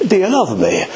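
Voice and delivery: lightly voiced Lord repeating the question; the Lord asking. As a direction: call her name like the Lord would. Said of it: "The Lord's speaking to you".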